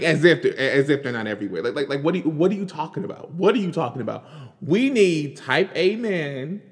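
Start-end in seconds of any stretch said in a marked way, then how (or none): 4.6-6.6 drawn out, higher mock; slow mocking quote. Mocking the pundit's words for her viewers, slow and higher. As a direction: savor each word mockingly. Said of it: "as if we're double A batteries".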